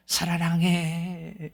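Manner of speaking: soft, very slow echo coming back. Retold or imitated. Mountain echo answering the call, soft and slow. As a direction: let it drift back faintly like an echo.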